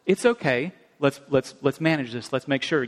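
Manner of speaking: imitating a calm mother, understated; calmly. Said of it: "but calmly".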